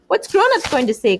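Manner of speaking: high loud dismay; crying out. A narrator's reading. Piggy crying out at the chaos, loud dismay. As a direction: wail the question out. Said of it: "cried Piggy again".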